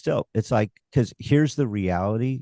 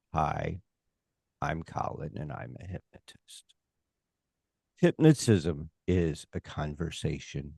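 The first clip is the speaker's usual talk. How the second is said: hypnotized dreamy voice; 4 semitones lower than usual. Retold or imitated. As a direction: lull the crowd like a dull hypnotist. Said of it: "how dare I walk in there?".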